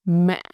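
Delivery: "Mẹ" given the ngã break, dipping then leaping up; broken ngã tone. Shown as a demonstration. Teacher drilling the broken ngã tone on "Mẹ". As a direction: crack the voice mid-word on "Mẹ". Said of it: "ngã tone, or broken tone".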